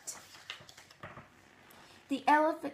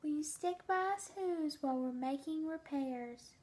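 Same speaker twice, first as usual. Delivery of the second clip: pleading mayor; 8 dB quieter than usual. A narrator's reading. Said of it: "pleaded the voice of the mayor's".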